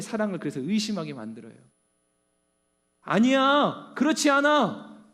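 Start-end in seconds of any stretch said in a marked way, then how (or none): 3.0-5.1 refusal. Acted. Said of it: "처음에는 그렇게 거부해보죠".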